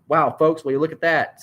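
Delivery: excited sportscaster wonder; amazed. A narrator's reading. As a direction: marvel aloud to the listeners. Commentator amazed at fan leaping.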